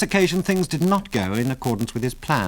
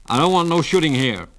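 higher-pitched bartender's objection; snapped; 6 semitones higher, 4 dB louder than usual. A narrator's reading. Bartender forbids shooting in his bar, snapped. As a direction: lay down the law with mild snap. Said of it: "snapped the bartender".

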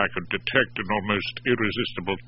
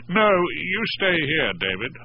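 slow, firm, higher command; with authority; 6 semitones higher, slower than usual. A narrator's reading. Barrister keeping the young man in place, with authority. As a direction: lay down the law. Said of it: "I spoke with some authority".

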